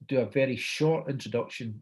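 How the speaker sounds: "short" given clear emphasis; stress on short. Retold or imitated. Producer briefing the host before the show, stress on short. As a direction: punch the word "short" within the instruction. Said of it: "and I stress the word short".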